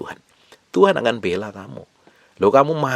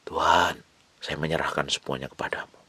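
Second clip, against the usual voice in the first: soft, lowered voice of surrender; retold tearful prayer; 3 semitones lower, 6 dB quieter than usual. Preacher retells surrendering everything to God, softly retold tearful prayer. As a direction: hush it into a mild retold plea. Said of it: "Saya nangis sama Tuhan".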